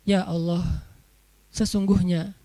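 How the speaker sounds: low, halting formal address to God; mock a stiff, solemn prayer opening; overly formal prayer. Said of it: "nggak usah resmi-resmi amat".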